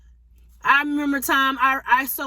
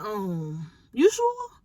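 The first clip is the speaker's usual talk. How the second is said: doubt him, half laughing in disbelief; incredulous; 5 semitones lower, 3 dB quieter, much slower than usual. Retold or imitated. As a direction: caught off guard by God's request. Doubting God's instruction, incredulous.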